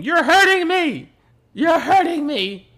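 put-on high, slow French-accented wail. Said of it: "in his French accent".

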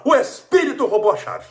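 high, loud mocking whine; a mock spirit-blaming whine, pitched high; mock excuse. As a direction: sing out the silly excuse.

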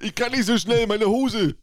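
high laughing whine; hammed-up laughing whine; mock breathless. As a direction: play yourself panting after her. Plays himself running, laughing.

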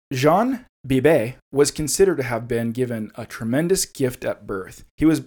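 measured, deliberate storyteller's reading; story narration. Acted. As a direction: read the grim tale aloud. Reads horror story excerpt aloud.

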